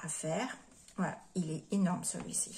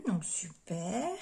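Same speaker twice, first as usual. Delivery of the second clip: whisper; slower than usual. Real, not acted. Whispered aside while showing stamps.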